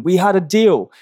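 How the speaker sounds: mock scream. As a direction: cry it out like a cheated passenger, half in earnest. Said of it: "he screams at the shipman".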